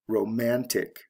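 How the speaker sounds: "romantic" stressed on MAN; "romantic" modelled with stressed middle syllable; stress on second syllable. Shown as a demonstration. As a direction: put the beat on MAN in "romantic". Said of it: "to the second".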